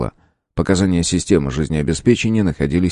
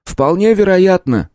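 higher, slow, smiling yes; smiling agreement; 12 semitones higher, slower than usual. Acted. Professor smilingly agrees with Julia, slow and high. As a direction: agree with a smile, drawn out. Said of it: "улыбнулся профессор".

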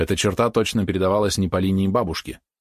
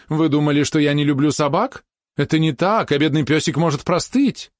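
put-on elderly princess voice; 7 semitones higher, 3 dB louder than usual. A narrator's reading. Princess worries about dog.

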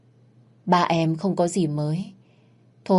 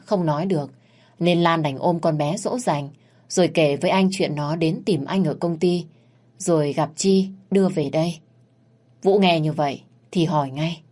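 ordinary delivery, nothing marked

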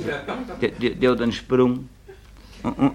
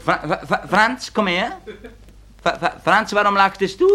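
put-on higher, stammering teacher calling a boy; stuttering teacher; 7 semitones higher than usual. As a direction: summon Franz with a stammer, raised pitch. Teacher calls Franz forward.

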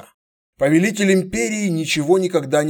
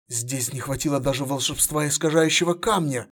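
plain reading voice

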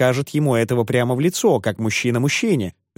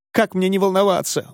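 wailing; 7 semitones higher than usual. A narrator's reading. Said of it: "вопила вдова".

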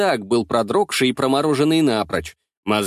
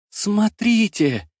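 slowly drawn out; 7 semitones higher, much slower than usual. A narrator's reading. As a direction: stretch every sound, very slow. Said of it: "медленно растягивая звуки".

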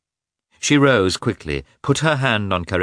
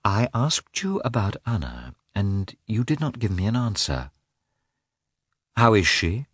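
desperate determination; 5 semitones higher than usual. A narrator's reading. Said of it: "with desperate determination".

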